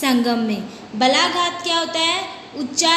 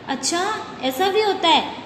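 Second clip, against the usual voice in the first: demonstrated mild astonishment; surprised question, lightly acted; 3 semitones higher than usual. Shown as a demonstration. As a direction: say "अच्छा" as if hearing something odd. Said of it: "आश्चर्य के साथ कहते हो ना".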